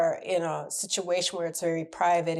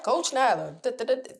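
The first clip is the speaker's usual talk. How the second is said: mock fanfare; 3 semitones higher than usual. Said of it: "I don't always say".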